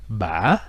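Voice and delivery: ba qui monte, descend puis remonte très haut; ba en trois temps, finale haute; tilde tone. Shown as a demonstration. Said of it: "Ça se prononce". (ba avec l'accent du tilde)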